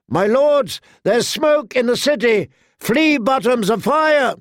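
alarmed shout. A narrator's reading. Lookout keeps screaming alarm.

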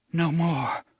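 put-on a girl's shaky plea; trembling plea. A narrator's reading. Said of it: "she said in a trembling voice".

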